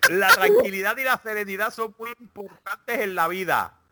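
light mock Castilian Spanish accent for a horoscope read; reading Leo's horoscope to friends in a hammed-up Spanish accent. Mock Spanish accent, Castilian lisp. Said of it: "el de Leo en el acento español".

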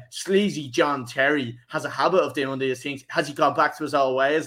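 lightly mock the sleazy headline; mock tabloid voice. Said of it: "went into the article and was like".

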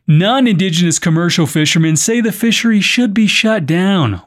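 measured podcast news delivery; news script read with clear phrasing. Acted. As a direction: read it out as a news story, evenly projected. Reads the news story.

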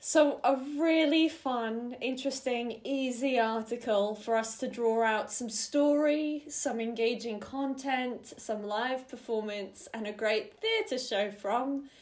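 slow, dry sarcasm; sarcastic. Real, not acted. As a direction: lay the sarcasm on thick. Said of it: "the level of sarcasm I'm speaking".

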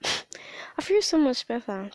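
barely voiced, slow and relieved; hushed and slowed after a cry; relieved whisper. Real, not acted. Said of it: "That's why I sound like this".

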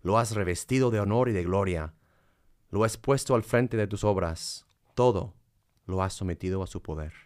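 solemn, reverent psalm reading. Acted. Reads a psalm.

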